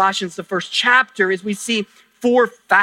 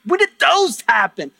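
higher-pitched mock bewilderment; playfully put-on surprise, pitched up; puzzled churchgoer; 4 semitones higher than usual. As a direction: act out a baffled congregant's question and answer. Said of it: "some of you are gonna go like".

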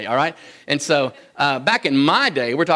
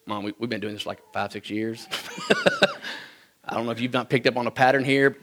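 put-on exasperated kid; 4 semitones lower, 6 dB quieter than usual. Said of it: "I'm like".

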